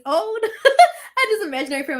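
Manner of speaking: laughing through the words; laughing while telling it. Real, not acted. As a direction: giggle as you repeat it.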